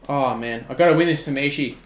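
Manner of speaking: normal talking voice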